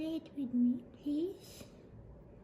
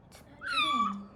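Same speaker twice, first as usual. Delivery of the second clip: high worried. Real, not acted. Worried about kitten.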